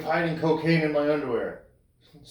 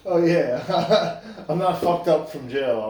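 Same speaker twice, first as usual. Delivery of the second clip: mock justification; 5 dB louder, slower than usual. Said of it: "it's like".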